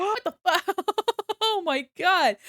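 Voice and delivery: high, loud disbelieving shriek with laughter; shocked laughing outburst. Real, not acted. Hearing that the driver ate the pizza, high shocked laugh. Shocked at story of eaten food.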